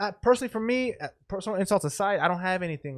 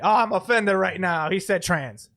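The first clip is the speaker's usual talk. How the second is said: slow, louder mock outrage at first; mock offended; 5 dB louder, slower than usual. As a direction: lightly parody someone taking offence. Mocks an easily offended person.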